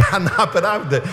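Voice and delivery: real laugh breaking into the protest. Real, not acted. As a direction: protest while still chuckling. Laughs at own joke about father.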